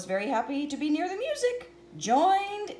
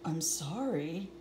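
sorry wolf; 9 semitones lower, 5 dB quieter than usual. Acted. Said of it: "said the wolf".

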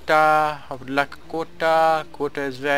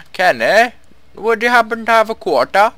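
louder, higher polite call; 10 semitones higher, 7 dB louder than usual. Real, not acted. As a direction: call across to a friend sweetly. Calling companion for coin.

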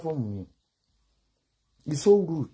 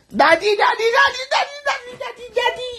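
very high, loud mock moaning of daddy; hammed-up breathy cries of daddy, mocking the video; 4 dB louder, much slower than usual. Vlogger mocking a viral video with high loud daddy cries. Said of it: "Ńgbà mo yẹ bàǹtẹ́ òbò rẹ̀, ó ní, "Daddy, daddy".

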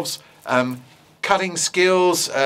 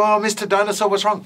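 higher timid little creature; 5 semitones higher, faster than usual. Acted. Little creatures asking the angry dinosaur, higher timid voice. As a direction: ask sweetly like a tiny animal. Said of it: "They go".

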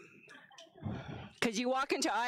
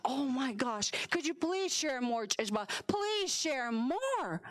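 pleading teacher; slower than usual. Retold or imitated. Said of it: "she's like".

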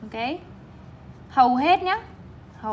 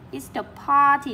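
party stressed on PAR; PAR-ty, falling away after the first syllable; 2 semitones higher than usual. Shown as a demonstration. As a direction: model Easter party with weight on PAR. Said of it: "trọng âm một".

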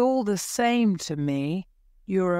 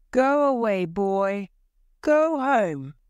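shooing shout; 4 semitones higher than usual. A narrator's reading. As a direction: drive the boy off. Crowd drives boy away.

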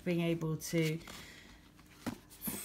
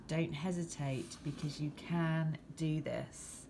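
card reading voice. Acted. Reads tarot card meaning.

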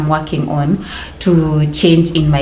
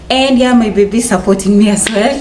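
laughing; 3 semitones higher than usual. Real, not acted. Laughing about baby's support.

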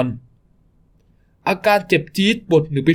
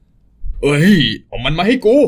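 slow menacing demand; much slower than usual. Acted. Thug demands the child.

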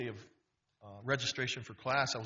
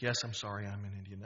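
ashamed apology; 5 semitones lower, 3 dB quieter than usual. Retold or imitated. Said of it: "I was ashamed".

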